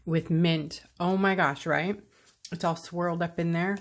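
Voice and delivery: chewing chocolate while talking; words round a bite of chocolate; mouth full. Real, not acted. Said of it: "with chocolate in my mouth".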